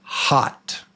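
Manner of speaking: "hot" whispered with a clear open "ah"; whispered listening-test word "hot"; quiz word demo. Shown as a demonstration. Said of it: "Here's the word".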